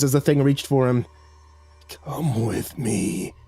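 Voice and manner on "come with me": a menacing creature, slow and chuckling. A narrator's reading. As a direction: lure him down with a slow chuckle. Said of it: "it chuckled".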